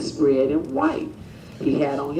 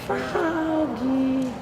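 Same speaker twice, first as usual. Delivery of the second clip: mother calling out; 7 semitones higher, much slower than usual. Acted. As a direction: call out across the yard. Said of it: "here's his mother calling again".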